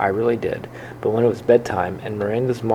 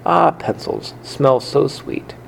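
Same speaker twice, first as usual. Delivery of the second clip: dreamy delight; 4 semitones higher, slower than usual. Acted. Hamster delighting in pencils.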